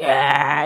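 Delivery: low villain growl; scary bad-guy noise. Describing a cartoon bad guy to a friend, low villain noise. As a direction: imitate a cartoon monster's low "ahh". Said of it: "the bad guy that was, like".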